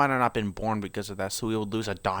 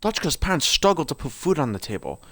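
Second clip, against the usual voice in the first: put-on lore read aloud in an amateur British accent; 6 semitones higher, 4 dB louder than usual.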